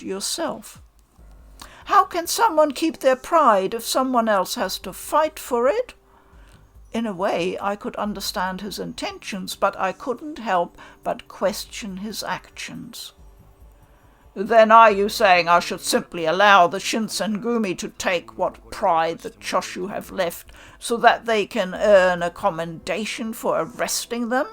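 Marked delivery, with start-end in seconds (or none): 1.8-5.9 earnest protest. Acted. Protagonist argues with raised pitch. 14.3-24.5 displeased. Acted. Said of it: "He did not sound amused".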